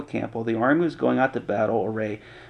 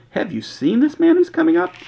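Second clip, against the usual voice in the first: higher, alarmed quote voice; mock frightened soldier. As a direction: voice a scared soldier pointing.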